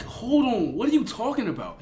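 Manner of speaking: high-pitched incredulous challenge; mock bewildered protest; retold disbelief. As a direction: act out being thrown by an accusation. Acting own disbelief at accusation.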